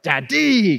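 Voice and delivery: Daddy as tadi, falling, a little wild; lightly imitating a wild baby Daddy; crazy toddler daddy. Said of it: "kinda crazy".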